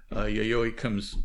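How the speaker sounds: ordinary talk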